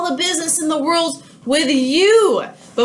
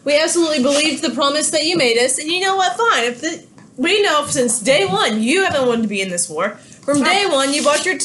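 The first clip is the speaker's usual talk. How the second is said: mock angry Britain. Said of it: "Britain is going to say".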